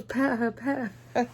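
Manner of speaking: high, slow eager urging. Retold or imitated. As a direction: coax warmly, stretched out. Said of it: "She goes".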